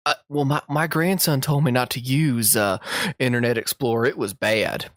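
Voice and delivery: a light hint of the old granny voice; just a touch of the clueless grandma; lightly voiced Southern granny; Southern old lady. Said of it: "pretended like I was a, just a Southern idiot".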